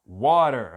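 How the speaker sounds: "water" said loud with a full W onset; clear W sound. Shown as a demonstration. Teacher shows learners "water" keeps its W, firmly. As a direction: model "water", keeping the W rounded. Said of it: "mantém o som do W".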